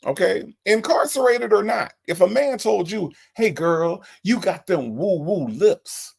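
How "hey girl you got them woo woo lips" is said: imitating the caller. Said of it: "and that's how he said it".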